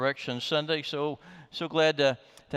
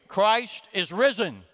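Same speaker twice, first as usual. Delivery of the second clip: loud, high-pitched shout-out; 6 semitones higher, 4 dB louder than usual. Leading the congregation's call and response: shouting out. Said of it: "I'm going to shout out".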